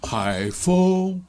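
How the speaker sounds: 海风 with 风 lifted high; 海风 with stress at the end. Shown as a demonstration. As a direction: put the weight on 风 in 海风. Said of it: "这样".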